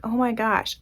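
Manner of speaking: whispered, breathless dismay over the lost ending; hushed dismay. Retold or imitated. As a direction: drop to a whisper as if it is a small disaster.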